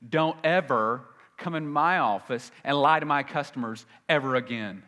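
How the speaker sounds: mildly reenacted telling-off, pressed and firm; retold angry warning. Confronting the lying manager in his face, firm angry warning. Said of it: "And I was so mad".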